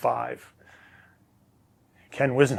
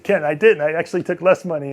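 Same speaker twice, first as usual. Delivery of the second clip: retold protest; 5 semitones higher, 8 dB louder than usual. His retort to the coach.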